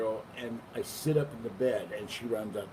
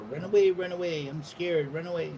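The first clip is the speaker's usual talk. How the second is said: voicing scared cat; 6 semitones higher, 4 dB louder than usual.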